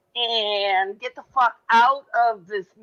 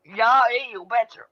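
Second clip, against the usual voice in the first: put-on Yooper accent. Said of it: "I speak Yooper".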